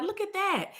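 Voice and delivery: high, soft note of marvelling; smiling delight. Retold or imitated. Mother marvelling at what just happened, smiling. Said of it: "now, now I'm smiling".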